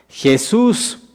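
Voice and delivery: lightly acted cry for attention; calling out. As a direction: call the name out high, without shouting. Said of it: "le dice en voz alta".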